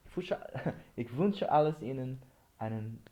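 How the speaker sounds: guten Tag with a Swiss German hard k; Swiss accent. Real, not acted. Signing off a German video in a Swiss accent. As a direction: Swiss German greeting, g turned to k. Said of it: "I'm saying it with a Swiss accent".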